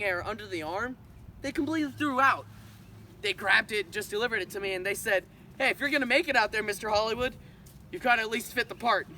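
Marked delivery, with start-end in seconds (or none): 5.6-9.1 lively imitation of an encouraging friend; quoting a friend. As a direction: quote a friend's pep talk, quicker start, raised pitch. Acting out friends handing over suit.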